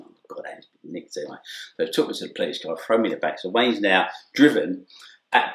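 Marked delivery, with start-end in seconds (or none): 0.1-1.4 resigned mutter. Retold or imitated. Inner thought on being arrested.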